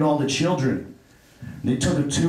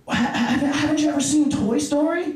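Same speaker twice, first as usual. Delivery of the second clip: mock Oprah amazement; 9 semitones higher than usual. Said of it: "She's like".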